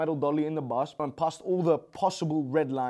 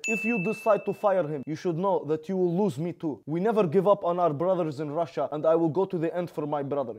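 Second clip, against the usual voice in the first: mock Russian-accented fighter voice, getting louder; Khabib impression; 3 dB louder than usual. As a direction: play the angry Dagestani champ, building to a shout. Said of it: "Khabib responded and said".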